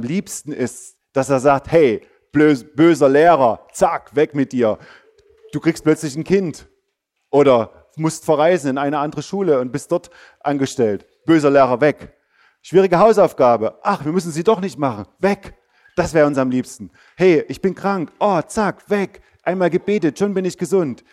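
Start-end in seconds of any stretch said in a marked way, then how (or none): 1.7-15.5 loud, brisk magic-wand banishing; mock bold command. Mock wish-prayer, bad teacher gone. 17.2-21.0 higher, excited quick-fix glee; mock delight. Mock instant healing wish.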